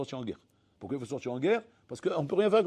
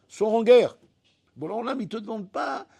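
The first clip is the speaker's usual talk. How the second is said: loud, higher barked order; mock command; 7 semitones higher, 7 dB louder than usual. Complaining man mocking the order to go to war, loud. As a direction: sors en guerre shouted.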